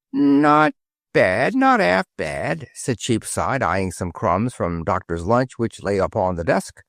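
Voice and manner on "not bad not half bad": Cockney sparrow. A narrator's reading. Cheapside voiced in Cockney.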